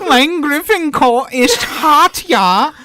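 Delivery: high, loud, slow mock German accent. Host reading the Welsh phrase, in a loud mock German accent. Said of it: "say it with, like, a German accent".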